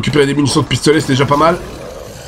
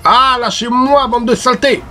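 high, slow, drawn-out cry; panicked yell; 9 semitones higher than usual. Real, not acted. Player swarmed by monsters, high drawn-out yell. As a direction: shove them off in panic.

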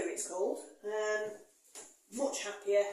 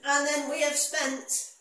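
laughing; 6 semitones higher, 11 dB louder, slower than usual. Real, not acted. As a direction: laugh then drag out the words slowly and loudly. Laughs then slow narration.

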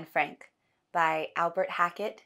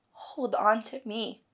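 slow, gentle, steady plea; tender urging; 2 semitones higher, slower than usual. Acted. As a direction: offer yourself as support, word by word. Acted plea to loved one.

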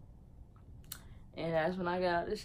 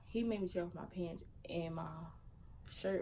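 whispered aside; 9 dB quieter than usual. Real, not acted. Telling a private detail.

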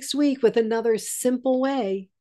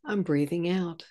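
soft inner thought; 5 dB quieter than usual. Shown as a demonstration.

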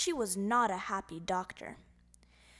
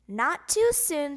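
wry; 3 semitones higher, 7 dB louder, slower than usual. A narrator's reading. Doctor waves goodbye wryly.

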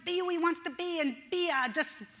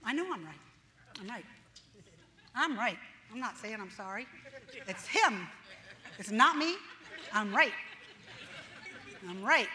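stubborn insistence; 4 semitones lower than usual. Retold or imitated. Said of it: "When I think".

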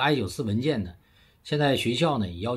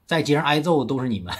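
usual speaking voice

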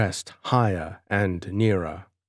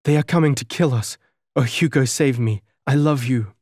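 high, fast, panicked pleading; frightened, fast; 4 semitones higher, 4 dB louder, faster than usual. Acted. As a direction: blurt it out in terror. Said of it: "cried the girl".

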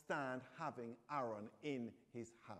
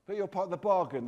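louder, higher call; calling after someone; 5 semitones higher, 13 dB louder than usual. A narrator's reading. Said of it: "the dog calls after him".

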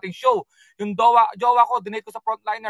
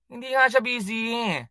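insistent protest; 3 dB quieter, slower than usual. Real, not acted. Insists Bianca is not busy.

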